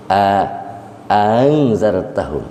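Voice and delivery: "a angzartahum" with the second onset glided, not stopped; tashil. Shown as a demonstration. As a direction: soften the second hamzah in "a angzartahum". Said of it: "Kalau tashil diringankan".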